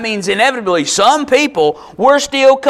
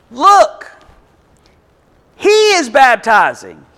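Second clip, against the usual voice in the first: declamatory scripture reading; 5 semitones higher, 4 dB louder than usual. Acted. Disciple reports a rival to John, declaimed high and emphatic. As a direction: proclaim it with big emphasis on key words.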